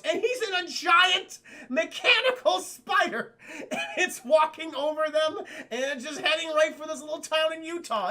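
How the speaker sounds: cracking up at the absurd giant spider; laughing. Real, not acted. Telling chat about the spider while laughing.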